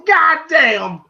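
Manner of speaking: high mock Paulie outburst; mock yell. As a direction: yelp it as if falling into snow.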